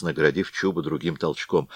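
ordinary delivery, nothing marked

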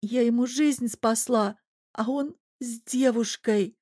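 on the edge of crying; a heartbroken girl to her mother; near tears. A narrator's reading.

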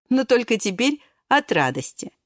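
ordinary delivery, nothing marked

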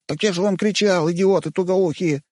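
put-on high, whiny kid voice; plaintive squeak. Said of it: "жалобно пискнул паренёк".

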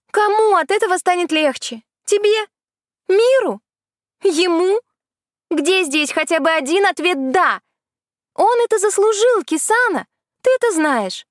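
высокий снисходительный голос колдуньи; рассуждай свысока, словно ведьма; колдунья, поучающе. Acted. (колдунья поучает Кисану, высоко и снисходительно)

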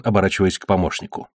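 ordinary delivery, nothing marked

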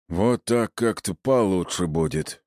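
lightly voiced big lunk; mildly booming, puzzled bruiser; booming hulk. A narrator's reading. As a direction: drone it out like a simple strongman. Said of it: "прогудел он".

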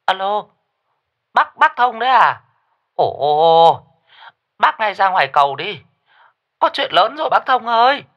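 high, breathless alarm; panicked woman. A narrator's reading. Neighbour Mừng phones Thông with terrible news, panicked and high. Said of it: "bà Mừng giọng hốt hoảng".

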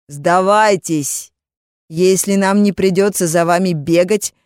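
loud slow commanding call. Acted. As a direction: shout after the fugitives. Pursuing mages call out.

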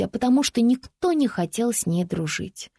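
usual speaking voice

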